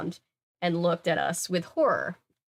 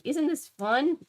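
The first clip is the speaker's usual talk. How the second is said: tipsy drawl; 8 semitones higher, slower than usual. Acted. Drunk Sunny at party.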